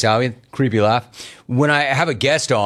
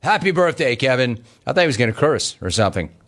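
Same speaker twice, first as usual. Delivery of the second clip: normal talking voice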